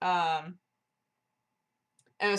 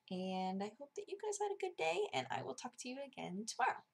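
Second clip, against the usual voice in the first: high, soft goodbye; sweet sign-off; 6 semitones higher, 10 dB quieter than usual. Real, not acted. Vlogger wishing viewers a good day, soft and high. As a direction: lift the pitch and keep it gentle.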